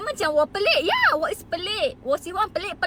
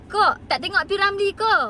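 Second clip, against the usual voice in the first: louder and higher, teasing the critics; mocking retort; 4 semitones higher, 4 dB louder than usual. Real, not acted. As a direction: fire the question back with a jab. Retorting at critics, then repeating. (sindiran kuat dan tinggi)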